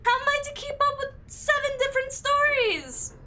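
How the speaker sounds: high, loud wail of overwhelm; exasperated outcry. Real, not acted. Player overwhelmed by seven stories updating at once, exasperated outcry.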